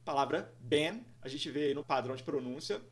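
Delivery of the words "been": "been" with short E, like "Ben"; "been" as one short-vowel syllable; open E vowel. Shown as a demonstration. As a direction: say "been" to rhyme with "pen". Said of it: "que soa como E".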